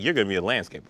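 low, soft mock hat pronouncement; Sorting Hat voice. Friend voices the Sorting Hat, low and deadpan. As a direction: intone it like the hat deciding fate.

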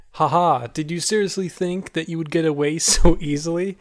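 gloating, laughing villain; villain taunt. Acted. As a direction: taunt the trapped hero. GM voices villain Angelina taunting.

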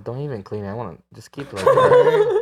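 squeaky laughing falsetto line; mock request. Mock customer asking dirty costume.

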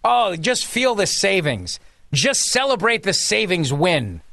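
slow, sarcastic mock celebration. Host mocking the budget savings claim, slow and sarcastic. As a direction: savor it with dripping irony.

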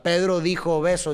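"Pedro dijo beso" in a regular pulse; rhythmic stress. Shown as a demonstration. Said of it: "esa es la musicalidad". ("Pedro dijo beso" con pulso regular)

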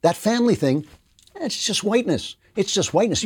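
high, sneering mock voice of the critics. Host mocking the critics' dismissive line in a high voice. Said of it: "So now they're saying".

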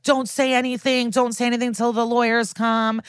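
half-voiced retold shout; mock yelling. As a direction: imitate a panicked yell without the volume. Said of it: "then he starts yelling".

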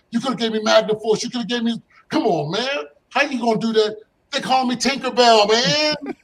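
high, loud indignant rant; barraging complaint. Retold or imitated. Teenager barraging his cousin over the nickname, indignant rant. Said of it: "So I'm barraging him".

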